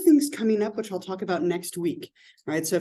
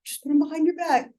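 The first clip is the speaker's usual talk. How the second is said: imitating herself as a coach, much higher and sing-song; a soothing coach voice pitched way up; gentle coach; 10 semitones higher than usual. Coach retelling how she coaxed a young player, mock high sing-song. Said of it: "I was like".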